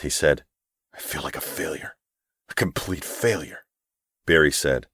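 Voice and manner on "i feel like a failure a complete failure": defeated. Acted. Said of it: "With a deep breath".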